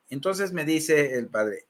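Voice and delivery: normal talking voice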